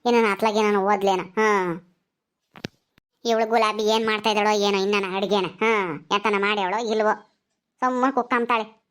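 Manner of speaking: low, subdued grumble; grumbling to oneself. Acted. Elder grumbling alone about Gulabi.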